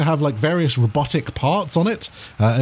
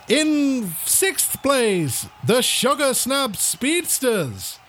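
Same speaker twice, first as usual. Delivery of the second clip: high, drawn-out stadium announcer; race announcer; 9 semitones higher, slower than usual. Acted. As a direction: call out the line-up slowly, stretching each name. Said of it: "The announcer comes on".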